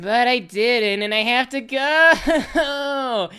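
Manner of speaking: high, slow, whining shout; whiny desperate plea. Pretend. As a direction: beg like a kid who really has to go. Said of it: "Dash says".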